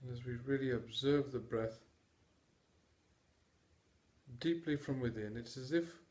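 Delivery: calm, measured meditation delivery with long pauses; guided meditation. Acted. Mindfulness teacher guiding listeners to notice their breath, guided meditation. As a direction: guide them through the breath in unhurried, separate phrases.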